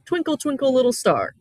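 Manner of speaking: lifted, sing-song "Twinkle, twinkle", each word falling; sing-song nursery rhyme. Shown as a demonstration. Teacher recalling a nursery rhyme for students, light sing-song. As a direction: call it out like a children's rhyme. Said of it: "Has a very regular rhythm".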